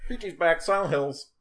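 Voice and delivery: high, loud hyped-up shout; mock Konami announcement. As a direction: proclaim it like a joke press announcement. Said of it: "Konami just says".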